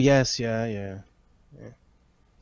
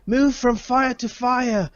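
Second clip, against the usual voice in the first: Arlen; 11 semitones higher than usual. Acted. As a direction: call out orders in a high, strained hero voice. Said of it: "Arlen says to the group".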